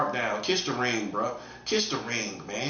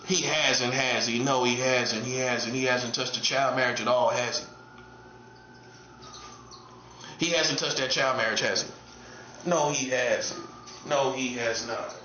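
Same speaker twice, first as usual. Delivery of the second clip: low-pitched, deadpan self-answer; mock solemn answer; 4 semitones lower than usual. Commentator answering his own taunt, low mock-solemn denial. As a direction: answer yourself in a lowered pitch.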